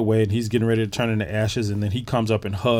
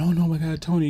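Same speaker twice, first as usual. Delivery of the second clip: higher, lightly hammed-up lament; mock crying wife; 6 semitones higher than usual. Wife over her dying husband, mock crying. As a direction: imitate a wailing wife without real tears. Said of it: "her coming up and crying".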